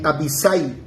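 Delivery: Abisai, stressed on the A, no accent on the I; teacher's model "Abisai", weight on the A; acento en la A. Shown as a demonstration. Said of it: "Acento en la A, por favor". (Abisai, acentuando la A y no la I)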